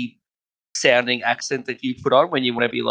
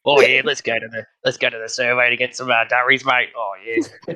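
Aussie slang accent; 2 semitones lower than usual. Shown as a demonstration. Joining friends' contest in an Australian slang accent. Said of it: "Does Australian accents come across".

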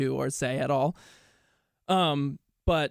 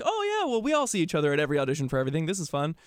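mock nonchalance; 2 semitones higher, faster than usual. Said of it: "I was like".

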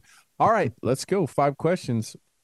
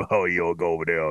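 Appalachian redneck impression; 7 semitones lower than usual. Mocking the mountain accent on a sports podcast. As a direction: lay on a mock Appalachian accent. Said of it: "Eddie O without it".

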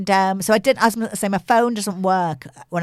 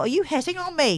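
retold thought; 8 semitones higher than usual. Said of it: "I thought".

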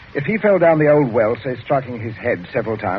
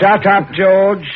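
angry shout; 8 semitones higher, 7 dB louder, much slower than usual. Acted. Father silences the interrupting son.

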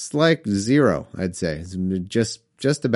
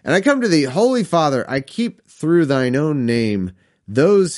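solemn scripture reading. Acted. Reading Jesus's prayer aloud, solemn scripture voice. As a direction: intone it like a preacher.

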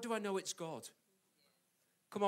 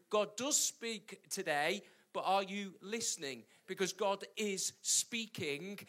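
usual speaking voice

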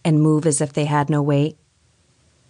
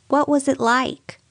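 high, slow, sinking tone; falling voice; 11 semitones higher, slower than usual. A narrator's reading. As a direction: dread seeping in as it falls. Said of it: "in a sort of falling voice".

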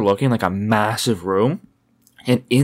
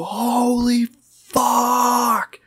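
high shrieked holy fuck; excited shriek; 12 semitones higher, much slower than usual. Retold or imitated. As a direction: squeal it out in disbelief. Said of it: "you can hear me in the videos go".

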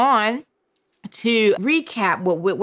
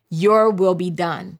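slow call to repeat; slower than usual. Shown as a demonstration. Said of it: "I need for you to say".

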